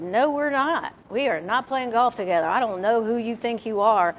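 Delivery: mock indignant pushback; retold refusal. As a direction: shut him down flat. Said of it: "And I said".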